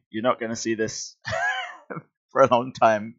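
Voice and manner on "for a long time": plain reading voice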